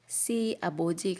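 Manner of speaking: SI 아버지 with a plain s; wrong S sound. Shown as a demonstration. Teacher warning students off this reading, plain S. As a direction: say "Si" like "see", no h. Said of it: "Not si 아버지".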